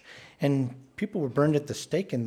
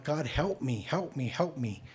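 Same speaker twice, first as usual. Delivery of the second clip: softer, slow broken begging; a touch of despair, softer and slow; desperate plea; 2 semitones higher, 4 dB quieter, slower than usual. Retold or imitated. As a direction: beg quietly, drawing it out. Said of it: "a man at the end of himself crying out".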